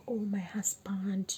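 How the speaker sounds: slow breathy whisper; a slow hushed "oh, my husband"; whispered complaint. Retold or imitated. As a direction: whisper it, hurt and hesitant. Retelling her own quiet complaint.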